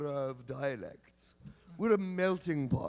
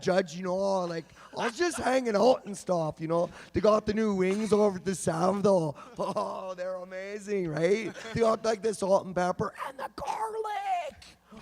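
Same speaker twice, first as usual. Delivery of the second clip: slacker Kelowna dialect. Shown as a demonstration. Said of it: "that is a dialect".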